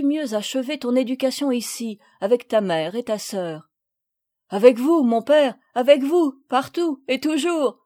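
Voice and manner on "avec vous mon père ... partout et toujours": louder, eager outburst; crying out. A narrator's reading. Paul answering his father, crying out eagerly. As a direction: throw it out with devotion. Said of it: "s'écria Paul".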